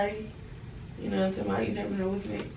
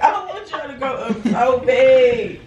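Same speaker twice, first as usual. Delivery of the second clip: laugh-crying; 3 dB louder than usual. Real, not acted. Sentimental wish, laughing and crying.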